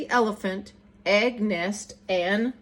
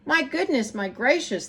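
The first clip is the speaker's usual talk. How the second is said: amazed shout; 3 semitones higher than usual. Acted. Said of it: "they shouted".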